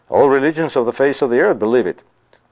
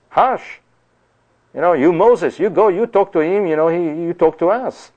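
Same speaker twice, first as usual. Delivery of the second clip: high, pleading hush then begging Moses; mock panicked crowd; frantic people; 6 semitones higher than usual. Preacher voicing Israelites urging Moses to speak instead, frantic. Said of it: "they were saying to God".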